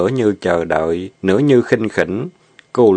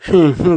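sigh; 9 semitones higher, 3 dB louder than usual. A narrator's reading. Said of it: "Ba Lành thở dài".

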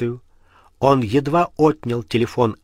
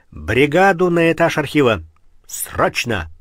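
shouted order; 3 semitones higher, 4 dB louder than usual. Acted. Ordering squad over intercom.

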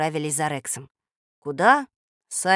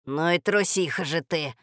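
grumbling. Acted. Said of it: "проворчал Рекс".

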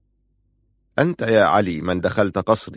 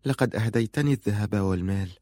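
softer, gentle and tender; 7 dB quieter than usual. Acted. Faroun speaking gently to her prince, softer. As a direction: ease it out softly to him. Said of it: "قالت في رفق".

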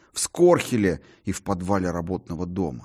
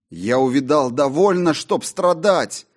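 loud cry; 8 semitones higher, 6 dB louder than usual. A narrator's reading. John cries out in the theatre, loud and anguished. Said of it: "громко вскрикнул я".

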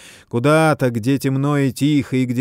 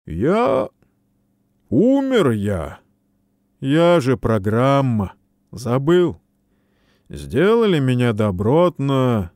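loud, high, slow agitated cry; agitated outburst; 3 semitones higher, 4 dB louder, slower than usual. Acted. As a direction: burst out in despair. Хэл cries out he is dead.

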